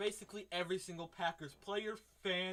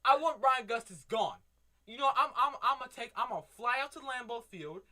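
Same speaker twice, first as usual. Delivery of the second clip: worked-up rant; 3 semitones higher, 5 dB louder than usual. Real, not acted. Ranting about the Packers GM.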